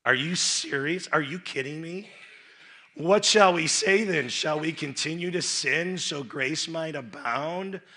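a touch of incredulous Paul; Paul's outrage. Acted. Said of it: "And so Paul says".

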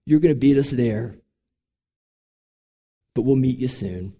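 softened, unhurried words of comfort; tender reassurance. Retold or imitated. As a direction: gently assure a dying loved one. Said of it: "I looked at him and I said".

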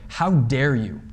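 a firm How dare you, flat stress on How; assertive rebuke. Shown as a demonstration. Preacher demonstrating Paul's rebuke to the church, assertive. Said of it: "a rather loud and assertive way".

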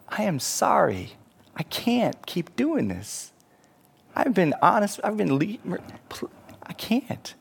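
hushed, pained refusal; soft, halting apology; apologetic refusal. Acted. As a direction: falter softly, voice dropping away. Professor apologetically refuses more pleading.

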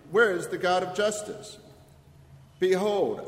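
usual speaking voice

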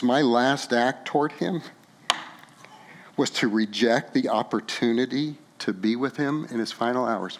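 quiet, choked-up telling of loss; tearful. Real, not acted. Preacher grieving his dad before the church, softly tearful. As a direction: hold back tears as you speak. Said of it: "I'm just really emotional about this".

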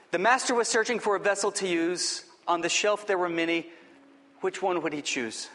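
measured, expressive poem read with voiced vessels. Pastor reading a poem to his church, expressive and measured. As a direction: read the poem to the congregation like a story.

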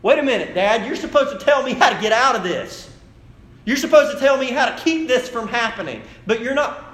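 high, loud acted protest; panicked daughter. Panicked daughter protests to her dad.

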